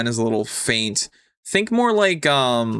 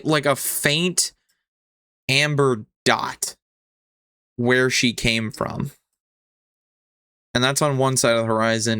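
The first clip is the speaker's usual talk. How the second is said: game master scene-setting. Acted. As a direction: place each detail with a pause after it.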